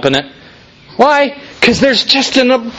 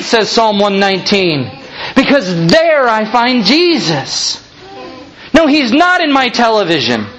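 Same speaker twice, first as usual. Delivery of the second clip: impassioned sermon climax, pitched up; fervent preaching; 4 semitones higher than usual. Real, not acted. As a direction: preach it with rising conviction. Preaches with fervour.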